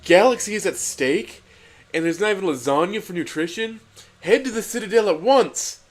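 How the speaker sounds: rally the crew like a cartoon captain; booming mock heroics; righteous command. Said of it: "ordered Garfield with righteousness".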